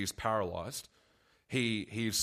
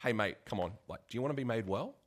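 lightly sarcastic, quick brush-off; a mild mock-sarcastic nudge, quicker at the end; 3 dB quieter, faster than usual. Preacher imagines Jesus teasing the lame man, mild sarcasm. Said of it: "in a sarcastic tone".

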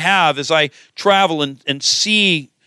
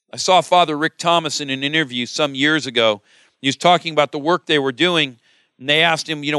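usual speaking voice

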